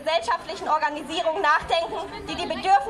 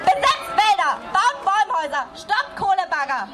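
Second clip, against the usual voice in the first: raised voice, calling out demands to the crowd; rallying call; 3 semitones higher, 4 dB louder than usual. Real, not acted. Speaker at climate strike calls crowd to action, raised voice.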